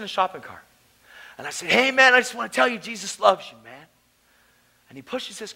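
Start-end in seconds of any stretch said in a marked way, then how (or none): 1.7-3.9 raised, louder friendly hail; calling out. Retold or imitated. Young believer hailing a homeless man with a cart, calling out. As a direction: call it over to a passer-by.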